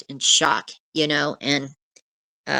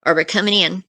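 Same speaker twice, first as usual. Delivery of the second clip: police officer; 4 semitones higher, 3 dB louder than usual. Retold or imitated. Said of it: "we hear an officer saying".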